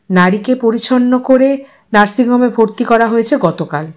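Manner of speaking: usual speaking voice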